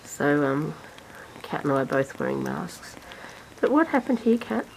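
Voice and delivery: speaking through a face mask; muffled voice behind a mask. Real, not acted. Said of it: "we sound a little bit muffled".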